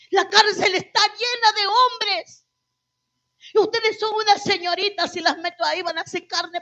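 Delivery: loud, insistent objection; emphatic protest. Retold or imitated. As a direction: protest forcefully as the alarmed commander. Commander's protest, acted with rising voice.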